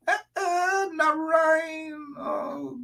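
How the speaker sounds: high-pitched surprised call of a name; excited cry. Real, not acted. Excited at seeing a viewer.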